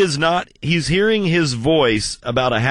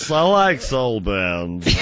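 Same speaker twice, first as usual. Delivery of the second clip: mock quote; 3 semitones lower, slower than usual. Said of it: "two things that you say".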